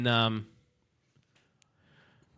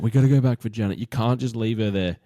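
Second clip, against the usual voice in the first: loud, pleading whine; a desperate, loud protest; whinging plea; 6 dB louder than usual. Retold or imitated. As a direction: beg them to turn back. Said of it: "whinging 'cause she's like".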